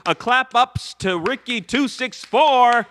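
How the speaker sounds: big cheer for the donor; hyped shoutout. Real, not acted.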